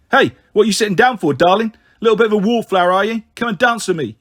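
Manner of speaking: loud, swaggering come-on; leering skinhead. Acted. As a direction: call a girl over like a cocky lout. Skinhead accosts the narrator.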